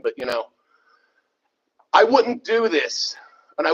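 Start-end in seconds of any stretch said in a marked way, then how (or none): 1.9-3.2 slow emphasis. Real, not acted. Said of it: "when I speak like this".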